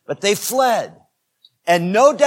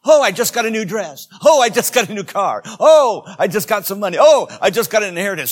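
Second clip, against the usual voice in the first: giddy; 3 semitones higher, 6 dB louder, faster than usual. Retold or imitated. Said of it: "I'm not talking about giddy".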